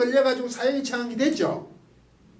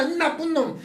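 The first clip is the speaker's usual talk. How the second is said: mock insult; 4 semitones higher than usual. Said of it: "이런 말이 아니라는 거지".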